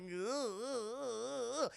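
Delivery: wavering wordless band imitation; wobbly "ugh" sounds mimicking musicians; imitated band noise. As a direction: vocalise the band playing.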